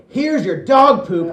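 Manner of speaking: sling it with a loud gloat; a little brother getting revenge on his sister; triumphant. Retold or imitated. Throwing poop at sister.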